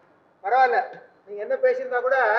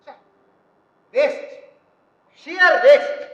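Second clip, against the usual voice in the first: annoyed exclamation; 8 dB louder, slower than usual. Acted. Boy annoyed at half-recorded tape.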